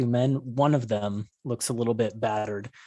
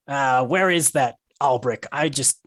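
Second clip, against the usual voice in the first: angry; 2 semitones higher, 5 dB louder than usual. Acted. Angry dwarf wants to punch.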